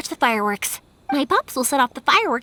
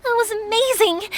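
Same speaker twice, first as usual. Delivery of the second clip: thrilled; 7 semitones higher than usual. Acted. After fireworks, thrilled.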